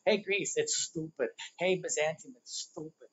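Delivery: put-on a light East Coast accent, tossed off; jokey hint of an East Coast accent. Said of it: "that was an East Coast accent that slipped in".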